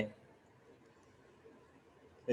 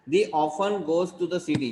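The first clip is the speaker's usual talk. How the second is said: slow dictation; 3 semitones higher, much slower than usual. Shown as a demonstration. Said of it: "teacher dictating English sentence".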